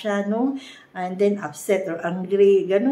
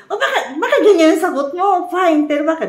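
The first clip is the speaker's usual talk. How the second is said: mock irritation; 9 semitones higher, 8 dB louder, faster than usual. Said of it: "Huwag ka rin ma-irritate".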